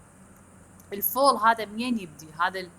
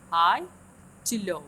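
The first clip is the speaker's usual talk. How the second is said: "High" loud with a lift, "to low" dropping back down; high to low glide; 5 dB louder, much slower than usual. Shown as a demonstration. Teacher tracing the glide-down mark for students, high then low. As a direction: push "High" up hard, then let "low" fall. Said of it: "high pitch to the low pitch".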